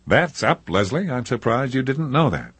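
a hint of a smug host; Hefner voice. Hefner's joking reply.

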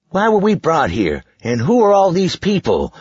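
put-on high boy forcing a grown-up voice; a kid trying to sound serious. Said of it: "In as grown-up a voice as he could rally".

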